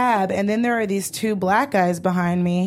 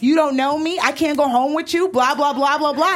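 mocking impression; 4 semitones higher than usual. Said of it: "doing an impression of me".

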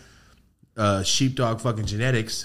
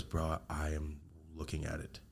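much softer, slow, awed; stunned hush; 6 semitones lower, 18 dB quieter than usual. Retold or imitated. Friend Matt stunned after the blinds slam the wall. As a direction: say it low, frozen in place.

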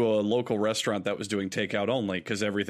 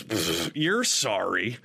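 slow, scoffing echo of the apology; mock contempt, drawn out; scornful customer; 3 semitones lower, much slower than usual. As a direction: imitate a disgusted customer, puffing air first.

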